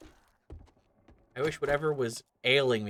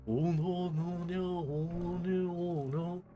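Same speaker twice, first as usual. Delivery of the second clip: God's voice; 8 semitones higher, slower than usual. Pretend. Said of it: "he can say".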